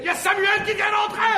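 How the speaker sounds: loud, high-pitched alert; alarmed announcement. Acted. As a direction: blurt out the news in a panic. Alarmed at Samuel coming in.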